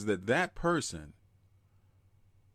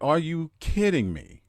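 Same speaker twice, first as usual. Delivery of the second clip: incredulous; 5 semitones higher, 4 dB louder than usual. Retold or imitated. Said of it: "I was like".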